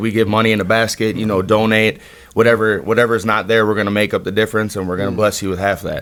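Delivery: ordinary delivery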